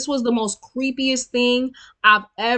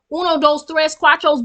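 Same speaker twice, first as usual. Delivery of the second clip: playful count in Spanish, slightly raised; 4 semitones higher than usual. Pretend. To viewers, playful mocking Spanish count. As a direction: count along with the viewers, teasing. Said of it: "Y'all, count with me".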